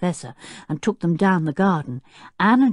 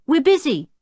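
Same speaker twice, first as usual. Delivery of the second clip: higher, offhand call; called back; 11 semitones higher, 4 dB louder than usual. A narrator's reading. Tinker fobbing Jenny off, high called reply. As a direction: toss it back dismissively. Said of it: "called back Tinker".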